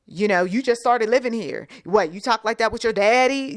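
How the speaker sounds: mildly indignant parental challenge; acted parental telling-off; scolding parent.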